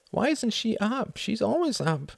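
put-on high-pitched childish complaint; whining girl. A narrator's reading. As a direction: whine it like a puzzled little girl. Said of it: "whined the girl".

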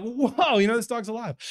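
high, astonished "whoa"; amazed whoa. Retold or imitated. Pastor reliving the dog springing to life, amazed. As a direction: gasp at the miracle.

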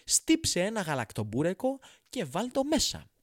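mock fussy customer order. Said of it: "να λένε".

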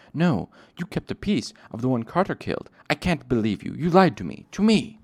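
building to a high, loud cry; hurt accusation. Acted. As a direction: accuse him, voice rising in hurt. Bast accusing, betrayed.

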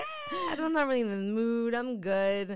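high whiny "eh", then settling; reluctant brush-off. Retold or imitated. Turning down her hookup in the hotel, reluctant brush-off. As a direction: wriggle out of it awkwardly. Retold awkward refusal.

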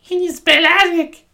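high, put-on pupil voice; cheeky pupil. Pupil asking teacher to spell attic, high put-on voice.

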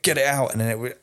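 fighting tears while telling it; close to tears. Real, not acted. Recalling father, crying while telling.

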